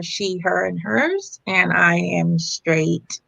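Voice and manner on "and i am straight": slow, deflated admission; a touch of mock disappointment; sounding sad. Real, not acted. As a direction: let it drop out slowly, like a letdown. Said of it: "You sounded very sad about that fact".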